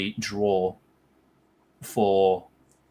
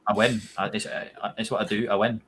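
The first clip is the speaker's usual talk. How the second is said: bad Scottish accent. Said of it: "That was a terrible Scottish accent".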